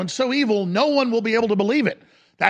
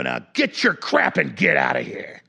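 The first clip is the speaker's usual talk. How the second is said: lower, slow dismissive order; slow, lower contemptuous dismissal; contemptuous handler; 6 semitones lower than usual. Retold or imitated. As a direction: brush him off with contempt. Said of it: "That's exactly how they talk to him".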